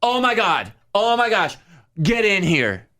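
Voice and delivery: high excited squeal; imitating drunk bride. Bridesmaid pulling JC into the elevator, high gushing. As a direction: gush like a tipsy bride. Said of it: "And she goes".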